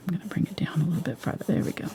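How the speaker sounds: hushed whisper while painting. Real, not acted. Painter whispering to herself while blending. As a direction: breathe the words quietly to the canvas. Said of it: "I don't know why I'm whispering".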